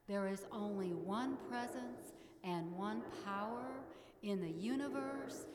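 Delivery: slow, measured prayer voice; prayer affirmation. Acted. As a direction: intone it reverently, fading at the end. Congregation affirmation with music.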